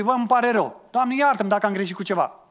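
high, loud offhand sorry; careless apology. Shown as a demonstration. Preacher mocking a casual apology to God, high and loud. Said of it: "Vă să spui".

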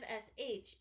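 "sh" stretched as steady air; long sh sound. Shown as a demonstration. Teacher ruling out S H, long "sh". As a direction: draw out "sh" without voice. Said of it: "going long".

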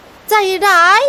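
put-on high, very slow tearful girl's voice; teary reproach. Hurt girl reproaching the district chief, teary and slow. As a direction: let it wobble on the edge of tears. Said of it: "หญิงสาวน้ำตาซึม".

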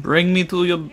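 mock Russian accent, hardened final consonants; Russian-accented monster voice. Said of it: "why am I speaking like a Russian now".

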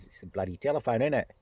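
mock London English accent. English traveller explaining to a listener, imitated English accent. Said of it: "Heard it from an English guy".

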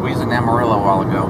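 "We was in Amarillo" in a hammed-up Texas accent; mock Southern accent. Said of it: "how to speak like you're from down here".

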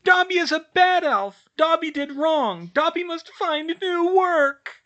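very high, loud, drawn-out elf wail; Dobby crying out. A narrator's reading. House elf condemning himself, loud high cry. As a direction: cry out in squeaky self-punishing despair. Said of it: "the elf cried".

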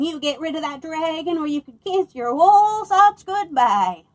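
the ram bawls at the farmer; bawling ram. Acted. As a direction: bawl the ultimatum. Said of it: "bawled the old ram".

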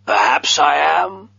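whispered, teasing the stranger; a secretive, evasive whisper; sly whisper. A narrator's reading.

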